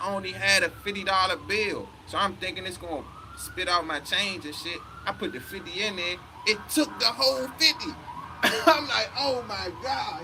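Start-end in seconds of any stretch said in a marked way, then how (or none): 6.5-10.2 high-pitched laughing disbelief. Retold or imitated. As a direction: laugh through it, voice jumping up. Laughing retelling of machine eating money.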